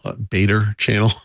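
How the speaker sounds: beta channel said Boston style, r dropped as "betta chan-nel"; Boston accent. Shown as a demonstration. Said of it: "channeling my inner Bostonian".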